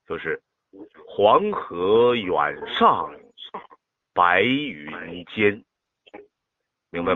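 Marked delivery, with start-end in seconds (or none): 1.1-5.6 黄河远上 slow with a pause before 白云间; teacher models the pauses, very slowly; demo with pauses. Shown as a demonstration. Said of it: "就这样读".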